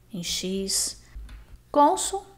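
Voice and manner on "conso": Conso pitched high, weight on Con; stressed penultimate syllable. Shown as a demonstration. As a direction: hit the first syllable of Conso, closed vowel. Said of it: "a penúltima sílaba tônica". (Conso com a penúltima sílaba tônica e fechada)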